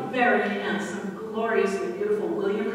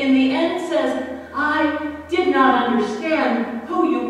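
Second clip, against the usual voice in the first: louder, impassioned Job pleading then yielding; voicing Job; 4 semitones higher, 4 dB louder than usual. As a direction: let Job cry out, then humble himself. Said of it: "Job, who complained and said".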